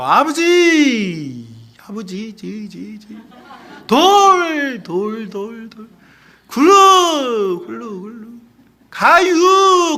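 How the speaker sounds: very slow Chungcheong dialect, syllables echoed. Demonstrating how Chungcheong people talk, in a slow Chungcheong dialect. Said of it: "그러니까 천천히 말하는 거예요".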